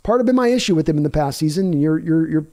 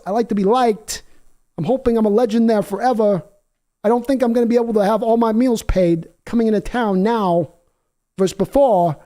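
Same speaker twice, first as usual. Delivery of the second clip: a raised, whiny football-star voice, lightly put on; mock hurt quarterback; 5 semitones higher than usual. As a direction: play the sulking star quarterback, feeling unloved. Continues quarterback voice.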